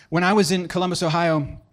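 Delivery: slipping lightly into a southern accent; folksy southern accent creeping in. Real, not acted. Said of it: "I flipped into a southern accent".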